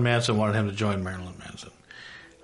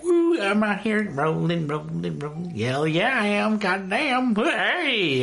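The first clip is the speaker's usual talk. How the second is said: higher, excited car singalong; hyped up; 8 semitones higher, slower than usual. Retold or imitated. Vlogger rocking out in his little Chevy Cruze, excited. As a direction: rock out in your car, hyped. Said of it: "I'm like".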